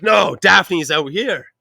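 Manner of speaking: very slow, high, drawn out; slow insisting. Retold or imitated. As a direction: stretch every word, stoned and stubborn. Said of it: "And I'm like".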